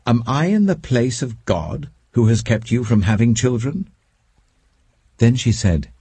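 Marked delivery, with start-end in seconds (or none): 0.1-3.9 mild anger. Acted. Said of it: "Jacob became angry with her".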